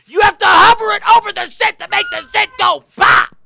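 high, loud ranting yell; outraged shout. Real, not acted. Gamer yelling at a fussy puzzle, outraged. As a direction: scream the complaint at the screen.

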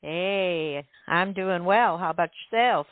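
subtle put-on Southern accent; imitated Southern accent. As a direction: lightly mimic your co-host's Southern accent. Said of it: "Are you trying to imitate my accent?".

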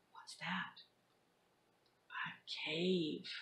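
hushed, spooky whisper. Acted. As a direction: creep in whispering. Creeping into the dark cave.

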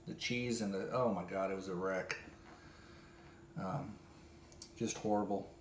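low, soft disgusted groan. Real, not acted. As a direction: sound sickened by it. Disgusted recalling pizza.

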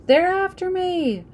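high, slow, frightened cry; terrified child fleeing a dream; scared yell; panicked. A narrator's reading. Nightmare terror, calling out.

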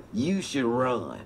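put-on low, slow old man urging; slow low nudge like a sly old man; deep slow sly suggestion.

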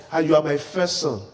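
low, soft voice of a disappointed father; father's quiet disappointment. Retold or imitated. Pastor retells his father's rebuke, low and hushed. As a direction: let it sink, hushed and heavy. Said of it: "One day he just told me".

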